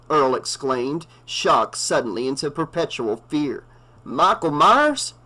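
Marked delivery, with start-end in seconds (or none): 4.0-5.1 slow, higher, stunned question; the name catches in his throat; fearful disbelief. A narrator's reading. Earl repeats the killer's name, stunned and fearful.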